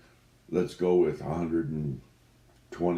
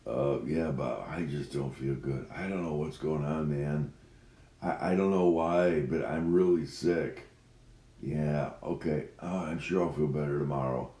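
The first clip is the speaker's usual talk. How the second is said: sick voice. Acted. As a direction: sound too ill to work. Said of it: "sick voice to call in".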